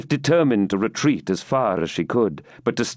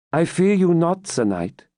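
higher opening, falling on the address; heroic defiance; 8 semitones higher than usual. A narrator's reading. Rebecca standing her ground before the Templar, heroic defiance. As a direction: declare fearlessness with composed resolve. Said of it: "the heroism of her accents".

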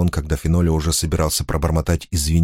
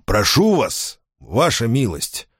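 higher, pleading with alarm; anxious plea; 6 semitones higher, slower than usual. A narrator's reading. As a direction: beg him to hold back. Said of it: "В голосе Фенолио явственно слышалась тревога".

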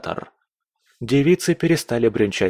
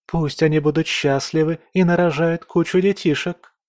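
put-on high girlish voice, sweet and sentimental; a moved girl gushing over lovers; touched young lady; 6 semitones higher than usual. A narrator's reading. Margarita joins in begging the emperor, high and sentimental.

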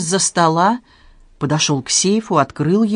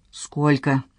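ordinary delivery

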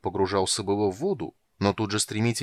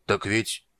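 tentative start at an ordinary volume; hesitant. A narrator's reading. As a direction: begin unsure of yourself. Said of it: "нерешительно начал Молот". (нерешительно)

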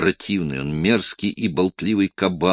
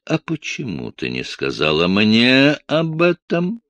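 stern demand; 6 semitones higher, 4 dB louder than usual. Acted. Stern man interrogates frightened girl.

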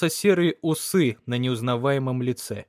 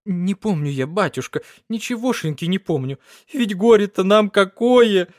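wailing, climbing to a loud high cry; grief-stricken wail; woman crying out her grief to the priest; tearful; 5 semitones higher, 5 dB louder than usual. A narrator's reading. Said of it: "Всхлипывая".

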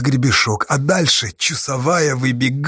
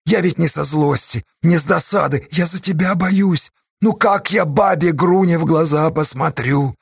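earnest plea; 4 semitones higher than usual. Acted. Pleading with friend to stay.

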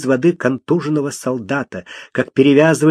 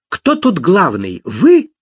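demanding call; 6 semitones higher, 4 dB louder, slower than usual. Acted. Lady rushing at the officials.

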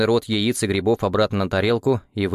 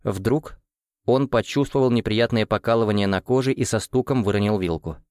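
usual speaking voice

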